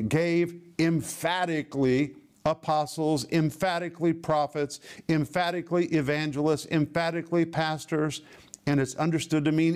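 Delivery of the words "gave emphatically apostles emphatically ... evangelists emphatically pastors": firm stress on each "emphatically"; insistent, repeated weight on "emphatically"; emphatic "emphatically". Shown as a demonstration. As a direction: drive home "emphatically" before every noun. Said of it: "so categorical and emphatic".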